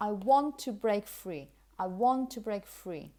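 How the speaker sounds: teacher's model sentence with "want" standing out; key words stressed. Shown as a demonstration. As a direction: stress on "want" and "break free", "to" light. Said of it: "What you need to understand really".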